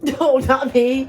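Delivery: loud, drawn-out no, not me; slow loud refusal. Real, not acted. Scene partner refusing the salesman at the door, slow and loud. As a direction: plant your feet and refuse.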